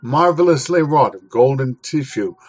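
measured, expressive reading of a classic essay; dramatic literary reading. Acted. Host reading Gorky's essay to listeners, dramatic reading. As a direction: paint the city of fire with your voice.

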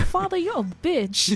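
high, slow mock-British dog. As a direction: draw it out high as a British pet talking back. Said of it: "do it in his British voice".

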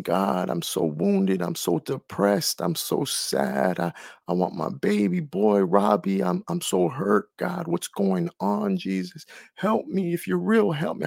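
a hushed, broken plea to God; tearful prayer. Retold or imitated. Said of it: "I went to bed crying".

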